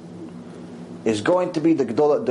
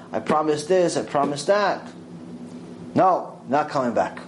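ordinary talk, nothing marked

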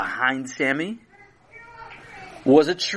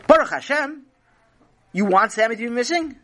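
high outraged question; scandalized disbelief; indignant; 9 semitones higher, faster than usual. Acted. Parent outraged at reply.

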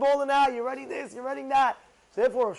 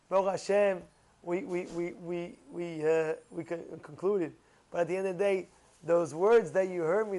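ordinary talk, nothing marked

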